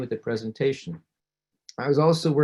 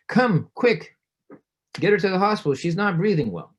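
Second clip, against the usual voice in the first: panicked call; 5 semitones higher, 4 dB louder than usual. Retold or imitated. Family panics, calls nine one one.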